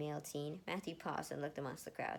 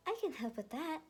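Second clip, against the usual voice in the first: higher, friendly tailor voice; Miss Applegate; 11 semitones higher, 3 dB louder than usual. Acted. Village tailor offering to help Erica, high and friendly. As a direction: offer help like a kindly seamstress. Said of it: "Miss Applegate".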